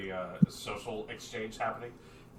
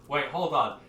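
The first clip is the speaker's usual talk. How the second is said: higher, louder startled question; incredulous; 6 semitones higher, 6 dB louder than usual. Acted. Tiefling asks strangers about the bodies, incredulous. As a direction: cut in and climb sharply in pitch. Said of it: "You hear Rever just go".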